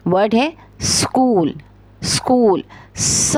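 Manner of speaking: स्कूल said slowly, starting with a clean स sound. Shown as a demonstration. Teacher to pupils, slowly sounding out स्कूल. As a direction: stretch out स्कूल with a crisp स at the start. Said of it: "करके कहिए".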